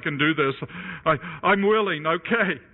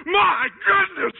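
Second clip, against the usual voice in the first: amazed exclamation; 11 semitones higher, slower than usual. Retold or imitated. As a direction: gasp it out like you can't believe your eyes. Crew amazed at the fish.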